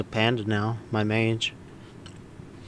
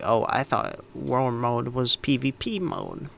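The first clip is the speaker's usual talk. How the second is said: mocking clueless player; slower than usual. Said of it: "people are like".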